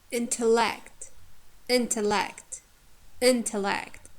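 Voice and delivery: careful "intellect", stress on "in", weak "te"; teacher's deliberate "intellect", strong first syllable. Shown as a demonstration. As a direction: hit the start of "intellect", lighten the middle. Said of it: "Second is".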